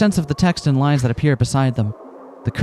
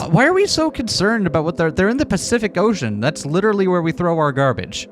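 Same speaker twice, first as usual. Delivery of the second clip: incredulous; 5 semitones higher than usual. Real, not acted. Incredulous laughing rant.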